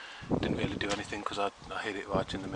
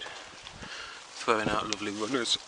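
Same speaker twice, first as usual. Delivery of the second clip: burp escaping mid-sentence; slower than usual. Real, not acted. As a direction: talk through a small burp after lunch. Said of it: "I'm burping at you".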